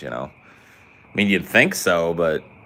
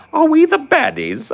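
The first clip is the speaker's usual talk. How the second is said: very high, loud "Are we the baddies?" with "the" stressed; high shout; 6 dB louder than usual. Shown as a demonstration. Gamer repeating the sketch line in a very high, loud squeal. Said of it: "that British humor".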